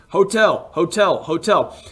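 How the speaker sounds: imitated insistent calls, each one stepping down; mock insistent repetition. Driver pointing across lanes of traffic, mock insistent. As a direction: repeat it like pointing something out.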